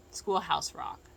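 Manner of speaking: usual speaking voice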